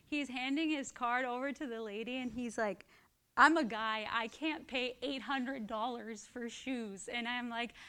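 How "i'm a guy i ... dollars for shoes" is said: lightly voiced brother balking, slowing down; imitating brother. Brother's protest in retold story.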